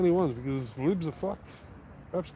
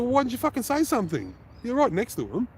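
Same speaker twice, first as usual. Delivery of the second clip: snapping angrily; 11 semitones higher than usual. Retold or imitated. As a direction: turn and snap at the bystander. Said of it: "I just snapped".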